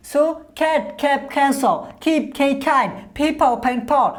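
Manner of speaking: cat, keep, pen with a strong puff on the first sound; aspirated English words. Shown as a demonstration. Teacher drills learners on aspirated English words. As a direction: breathe out on each opening consonant. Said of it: "এইভাবে করে আপনি এই চারটা উচ্চারণ".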